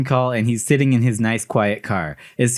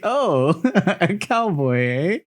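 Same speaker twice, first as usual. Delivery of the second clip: put-on Liam Neeson Irish accent; 5 semitones higher, slower than usual. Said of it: "talking in his Liam Neeson Irish accent".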